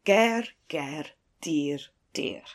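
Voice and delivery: trailing off into a whisper; fading whisper. Retold or imitated. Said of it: "So the man says".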